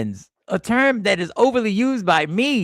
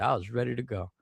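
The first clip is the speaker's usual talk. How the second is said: quoting her, softer; 7 semitones lower, 8 dB quieter, faster than usual. Retold or imitated. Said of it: "She said".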